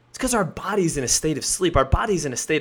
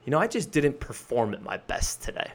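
reflective; 7 dB quieter than usual. Shown as a demonstration. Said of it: "more intellectually reflective".

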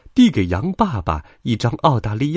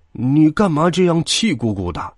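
put-on old grey dog, higher-pitched grumble; grumbling old dog; 8 semitones higher, 3 dB louder than usual. A narrator's reading. Old grey dog to angry sheep mother at the post office, grumbling. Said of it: "老灰狗咕囔着".

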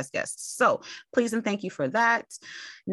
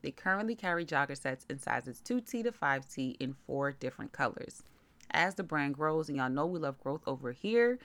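softer, measured promotional read; sponsor ad read; 3 semitones lower, 8 dB quieter than usual. Real, not acted. Host promoting a toddler clothing brand to listeners, ad read. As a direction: read the sponsor spot evenly and softly.

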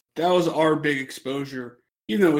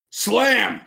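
imitated in-ring call; 7 semitones higher than usual. Andre calls the move in ring.

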